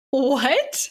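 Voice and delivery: loud, high, stunned exclamation; shocked what. Real, not acted. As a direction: blurt it out in disbelief. Host reacts to shocking quote.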